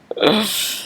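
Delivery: soft, choked-up exhale; tearful breath. Real, not acted. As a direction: let out a quiet breath, holding back tears. About to cry, fighting tears.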